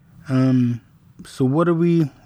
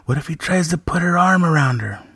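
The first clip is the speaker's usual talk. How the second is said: teasing sister; 6 semitones higher than usual. Retold or imitated. Daughter teasing retold.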